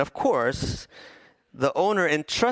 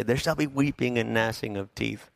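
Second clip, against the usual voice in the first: mock threat to kids; 3 semitones lower than usual. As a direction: menace the kids playfully. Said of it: "threatening them with something".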